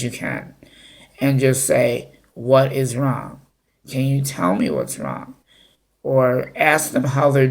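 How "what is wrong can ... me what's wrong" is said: calm and gentle. Shown as a demonstration. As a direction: ease the child into talking, calm as you can. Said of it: "really calmly and talk to them".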